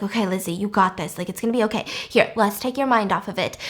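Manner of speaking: low, soft encouragement; quietly steady a sick friend; calm reassurance. Retold or imitated. Charlotte distracts sick Lizzie from her pain, calmly reassuring.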